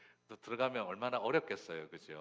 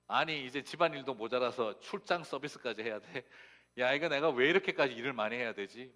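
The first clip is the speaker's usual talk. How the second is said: loud, raised-pitch grumbling outburst; retold indignation; 4 semitones higher, 8 dB louder than usual. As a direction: protest like a fed-up daughter-in-law. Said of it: "화가 확 나더래요". (화가 확 난 듯 따지는)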